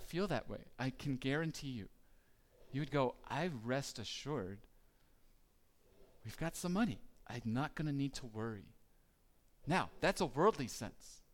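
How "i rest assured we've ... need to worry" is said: a relaxed, easy assurance; calm assurance. Retold or imitated. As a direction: say it like nothing can touch you. Secure heir voiced.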